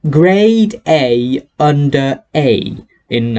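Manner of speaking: slow, mock posh British "Grade A Under A"; posh British accent. Shown as a demonstration. Plugging a YouTuber's name, mock posh British accent. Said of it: "proper British accent".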